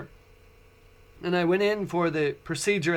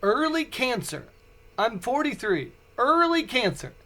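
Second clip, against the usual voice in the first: stunned disbelief; 6 semitones higher than usual. Retold or imitated. Repeating the diagnosis to himself, stunned disbelief. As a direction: repeat it in shock. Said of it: "I said it like that".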